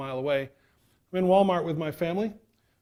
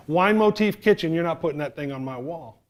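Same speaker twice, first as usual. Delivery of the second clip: indignant wife; 2 semitones higher, 7 dB louder than usual. Acted. Acted wife refusing husband's plan.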